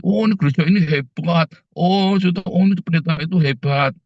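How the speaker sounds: lightly mocking admirer of the pastor; mock church fan. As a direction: parody someone raving about the church. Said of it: "saya bukan ... kalau Tuhan Yesus baik".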